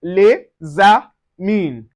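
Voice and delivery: slow "les amis", S linked as a Z; linked pronunciation. Shown as a demonstration. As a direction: say "les amis" as lay-za-meen. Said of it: "The S sound like a Z".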